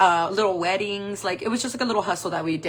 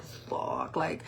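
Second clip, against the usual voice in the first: whispered expletive; hushed, voiceless aside; dismayed inner curse; 3 semitones lower, 9 dB quieter than usual. Acted. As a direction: curse under the breath in dread. Inner dread before the confrontation.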